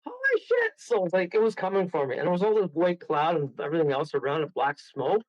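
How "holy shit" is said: high panicked shout; retold shout. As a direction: yell it in terror as it comes. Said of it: "And I go".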